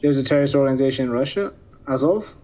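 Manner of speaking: quick, lightly parroted broadcast phrasing; a hint of a TV announcer, fast; mock TV news line. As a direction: rattle it off like a slogan off the evening news. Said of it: "It's like they say on T V".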